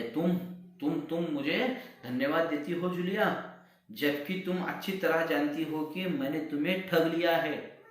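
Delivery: high, loud furious outburst; angry shout. Acted. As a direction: boil over and shout at her. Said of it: "ऊंचे स्वर में गुस्से में आए हैं".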